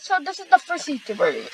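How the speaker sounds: burp breaking through the words; talking through a burp; burping after fizzy drink. Real, not acted. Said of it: "Oh my god, I'm sorry, I'm burping".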